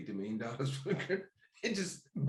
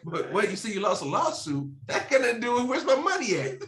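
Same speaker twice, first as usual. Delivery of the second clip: gruff impatient scolding; 6 semitones higher than usual. Pretend. Landlord demanding rent.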